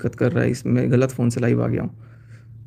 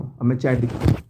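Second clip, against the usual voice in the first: ordinary talk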